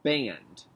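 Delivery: "band" said slowly and cleanly as a model; teacher models the word. Shown as a demonstration. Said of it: "I say, you say".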